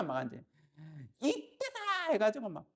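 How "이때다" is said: rooster's cry. Pretend. Rooster seizing its moment.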